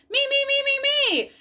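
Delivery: high excited me me me; Froggy begging to go first; eager shout. A narrator's reading. Froggy begging teacher to go first, eager shout. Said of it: "Froggy shouted".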